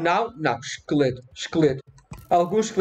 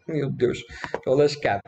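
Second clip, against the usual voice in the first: normal talking voice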